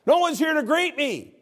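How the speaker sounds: high, loud complaining prayer; a worn-out missionary crying out to God; self-pitying missionary. Acted. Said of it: "he said".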